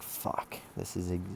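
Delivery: hushed, sinking dread; dismayed undertone. Retold or imitated. Student called out to the hallway, dismayed and hushed. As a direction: curse softly under your breath, as if thinking it.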